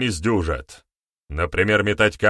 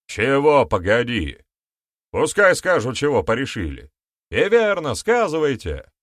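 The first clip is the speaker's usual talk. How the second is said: demanding; 7 semitones higher, 5 dB louder than usual. A narrator's reading. Elder retorts, demands answer.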